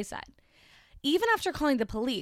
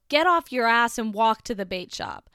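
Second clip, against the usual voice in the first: mock yell; 6 dB louder than usual. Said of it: "I heard one of them yell".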